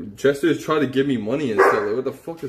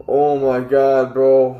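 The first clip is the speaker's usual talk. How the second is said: slow, loud exasperated groan of words; loud dismay; 5 dB louder, much slower than usual. Real, not acted. Streamer dreading getting locked up, loud dismay.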